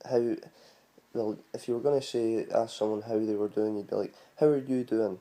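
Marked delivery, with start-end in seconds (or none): 4.4-5.2 Scottish accent, light demo. Shown as a demonstration. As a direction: say it like a Scot greeting a friend. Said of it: "like, in Scottish".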